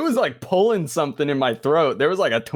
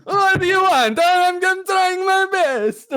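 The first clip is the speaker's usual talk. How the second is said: very high, louder, laughing through it; laughing exasperation; 3 dB louder than usual. Real, not acted. Host cracking up at cohost's teasing, high laughing plea. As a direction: crack up while pleading.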